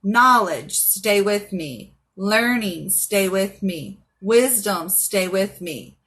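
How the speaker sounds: slow, measured spell chant; slow incantation. Shown as a demonstration. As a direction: recite each line like a charm.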